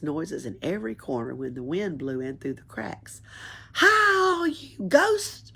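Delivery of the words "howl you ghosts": high, loud ghost-calling shriek. A narrator's reading. Pippi shrieking at the ghosts in the attic, high and loud. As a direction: yell it up into the dark attic. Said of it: "shrieked Pippi".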